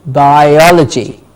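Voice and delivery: "Biology" slowly, bi-OL-uh-jee; slow teacher's model of "Biology", stressing the second syllable; stress before -logy. Shown as a demonstration. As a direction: draw out "Biology", weight on "o". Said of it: "the syllable before logy is stressed".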